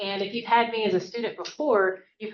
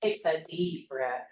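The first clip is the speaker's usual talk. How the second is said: slow, soft cue; 2 semitones lower, 4 dB quieter, slower than usual. Shown as a demonstration. Teacher leading students in diaphragm breathing, slow soft cue. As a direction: let them breathe in slowly. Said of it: "put your hands right here".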